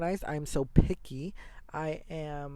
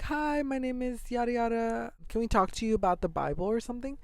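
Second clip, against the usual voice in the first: put-on Mormon girl; 6 semitones higher than usual. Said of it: "They're like".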